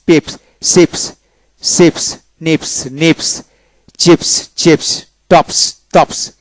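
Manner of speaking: চিপস closed on "p" plus a hissed "s"; dental S ending. Shown as a demonstration. Teacher drilling PS words for students, dental S demonstration. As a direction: finish টপস with a dental "s". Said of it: "দন্তাস্য যেমন".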